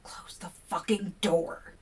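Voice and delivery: slow whispered order; urgent whisper. A narrator's reading. William whispering to Kevin, slow urgent order.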